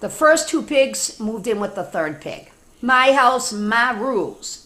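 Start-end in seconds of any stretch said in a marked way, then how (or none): 2.8-4.6 put-on bossy girl pig. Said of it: "she said".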